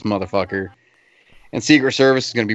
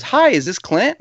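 put-on girl on phone; 9 semitones higher, slower than usual. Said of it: "this girl goes".

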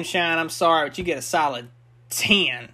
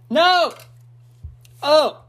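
pained high exclamation; 11 semitones higher, 5 dB louder than usual. Real, not acted. Reacting to the moonshine burn.

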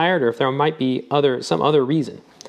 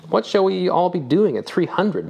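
slow, higher wondering question; musing speculation; 8 semitones higher, slower than usual. A narrator's reading. Mister Proctor wonders about living three hundred years, slow and musing. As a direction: muse aloud, half amused. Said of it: "Mister Proctor speculated".

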